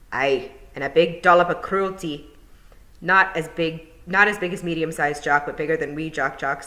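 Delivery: brisk wee Scottish pixie. Acted. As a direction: Feegle boasting lightly. Feegle explains, says his name.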